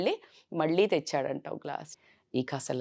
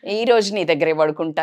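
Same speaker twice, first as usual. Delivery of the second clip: put-on a child's coaxing whine, a bit louder; whiny pleading; 5 dB louder than usual. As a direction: beg to sleep beside her, sulking. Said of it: "అని మారం చేస్తుంటారు".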